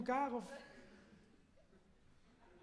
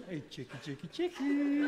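sweet calling; 4 semitones higher than usual. Retold or imitated. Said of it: "ze roepen het heel lief zo".

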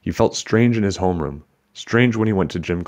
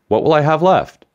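stern demand; 9 semitones higher, 7 dB louder than usual. Acted. Teacher demands answer in class.

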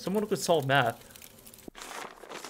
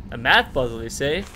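loud man voice; 7 dB louder than usual. Acted. Player voicing the man answering Lena, loud and hearty. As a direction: boom it back at her, hamming up the old man. Man repeats Lena's words.

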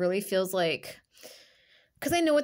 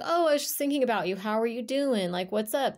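mock sweet, fast and higher, faking interest; fake friendly; 4 semitones higher than usual. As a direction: put on a sugary fake-friend voice. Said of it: "and they'll be like".

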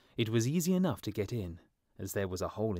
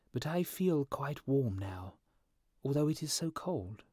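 swallow puzzled; 5 semitones higher than usual. A narrator's reading.

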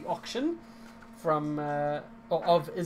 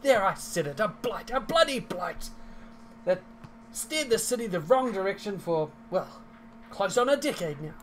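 higher, louder, effusive character voice; elated grateful patron; 5 semitones higher, 4 dB louder than usual. Acted. Game master as grateful patron thanking the party, effusive. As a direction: heap praise with punched openings.

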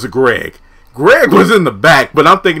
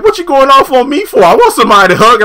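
high whiny man; 11 semitones higher, 6 dB louder, faster than usual. Retold or imitated. John voiced.

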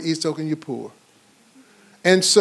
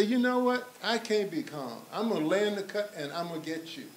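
imitated quiet threat; 2 semitones higher, 14 dB quieter than usual. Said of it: "you would pretty soon say".

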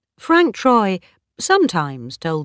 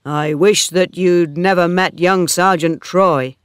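louder, worried suitor's voice; lightly voiced Oak, concerned; 7 dB louder than usual. Oak meets Bathsheba walking home, lightly voiced and concerned. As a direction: lightly play a concerned farmhand, voice raised.

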